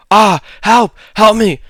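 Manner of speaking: full-throated scream for help, high and loud; desperate scream. Acted. Trucker screaming for help from behind the truck, desperate. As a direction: shriek for help at the top of the lungs.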